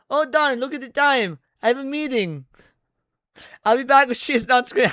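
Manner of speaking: weak attempt at a Latina accent. Shown as a demonstration. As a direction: try a Latina accent, barely lands. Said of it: "I can't do a Latina accent".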